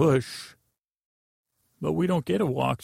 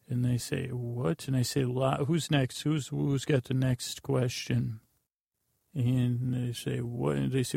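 bedtime storytelling. Acted. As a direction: ramble drowsily through a tale for sleepers. Tells a rambling bedtime story.

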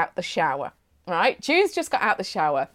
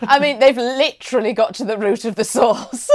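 amused repeat; 4 dB louder than usual. Real, not acted. Repeats punchline, laughing.

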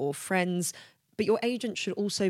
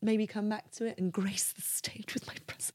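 mock grandeur; 3 semitones higher, 5 dB quieter than usual. Mock-grand self-aggrandizing aside.

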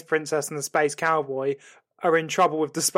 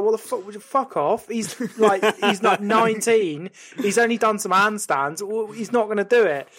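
exasperated objection; 4 semitones higher than usual. Acted. Gremlin argues with the ghost.

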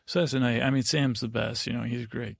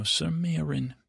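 a high, sing-song name; a touch of mock drama on the name; lightly mocking; 5 semitones higher than usual. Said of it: "she doesn't say it like that".

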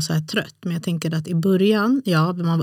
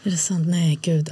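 whispered disbelief. Real, not acted. Friend reacting to her staying awake, whispering. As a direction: breathe it out, amazed.

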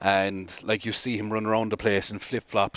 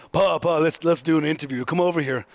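Bill Kazmaier impression; 4 semitones higher, 4 dB louder than usual. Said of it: "And Bill was like".

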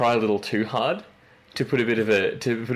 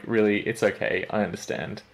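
softening, halting reassurance; gentle reassurance; 4 dB quieter than usual. Retold or imitated. Telling the embarrassed person it's okay, retold reassurance. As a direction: let them off gently, trailing softer. Reassuring someone who botched name.

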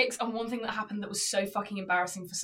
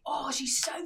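high, loud mock yell, swearing; hammed-up rage at a useless worker; a caller ranting, thinking she is muted; retold furious rant; 8 semitones higher, 8 dB louder than usual. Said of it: "she thought she'd muted herself".

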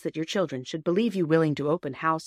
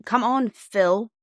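put-on louder, higher, drawn-out boyish call; eager cry; 5 semitones higher, 5 dB louder, much slower than usual. Peter calling his sister away, eager cry. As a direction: urge her along eagerly. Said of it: "cried Peter eagerly".

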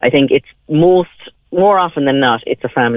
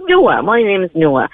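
put-on slow, proudly announced child's introduction; proud child, imitated; 3 semitones higher than usual. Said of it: "he's very proudly".

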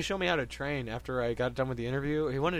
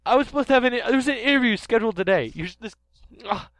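high, loud startled professor; a flustered scientist knocked over, squeaking; Professor Sycamore voice; 5 semitones higher, 5 dB louder than usual. Acted. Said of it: "Hi, I'm Professor Sycamore".

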